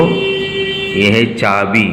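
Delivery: slow dictation. Shown as a demonstration. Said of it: "तो चो हम आधा लिखेंगे".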